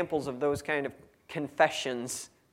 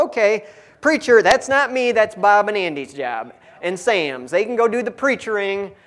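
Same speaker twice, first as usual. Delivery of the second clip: mock dismissive churchgoer; 3 semitones higher, 5 dB louder than usual. Preacher mimicking his congregation dodging the job, louder mocking shrug. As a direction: brush it off onto the preachers.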